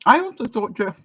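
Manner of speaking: talking through a mouthful; words round a bite of food; mouth full. Real, not acted. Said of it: "sorry, talking with my mouth full".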